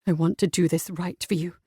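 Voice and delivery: low, rough and soft; husky, restrained male voice. A narrator's reading. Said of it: "His voice was rough".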